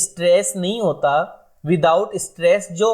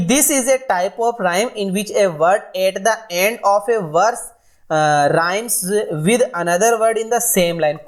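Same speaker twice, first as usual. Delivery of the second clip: slow dictation; much slower than usual. Shown as a demonstration. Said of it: "teacher reads definition slowly".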